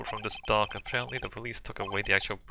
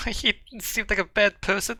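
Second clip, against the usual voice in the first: pitched way up in laughing disbelief; incredulous mock echo; 10 semitones higher, 3 dB louder than usual. Player mocking a character's naive remark, incredulous and high. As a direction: throw the line back, scoffing. Mocking the line he just read.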